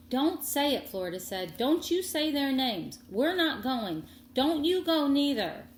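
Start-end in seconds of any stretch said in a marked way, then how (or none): 0.1-0.9 high, loud cry of refusal; upset protest. Acted. Girl cuts off Sari, refusing the visit loudly. 1.6-5.7 high and loud, insisting hard; angry refusal. Acted. Girl begs Sari not to visit, loud and angry.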